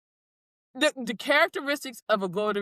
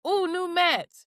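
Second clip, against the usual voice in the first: excited ooh; 9 semitones higher, slower than usual. Retold or imitated. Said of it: "I was like".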